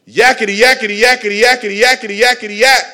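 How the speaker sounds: high, insistent monkey yakking. Acted. Monkey drowning out Jesus, loud chattering voice. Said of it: "the louder the monkey gets".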